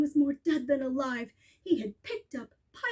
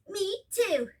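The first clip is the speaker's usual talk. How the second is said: put-on a touch higher, cheeky child; slightly raised kid voice; lightly voiced little kangaroo; 4 semitones higher than usual. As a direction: taunt like a small copycat. Baby kangaroo echoes mother.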